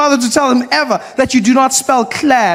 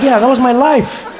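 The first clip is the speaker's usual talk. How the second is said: mock exasperated reply; 4 semitones higher than usual. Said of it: "I'm like".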